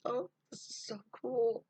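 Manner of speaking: high and loud, amazed; thrilled girl. Acted. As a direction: gasp it out in delight. Girl feels heat in hands.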